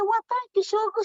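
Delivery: high, sassy sweet thanks; sassy thank you. Retold or imitated. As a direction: accept it with sass. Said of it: "I said".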